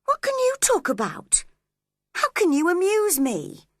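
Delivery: mock him, voice up high and sharp; scornful Catherine. A narrator's reading. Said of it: "she asked crossly".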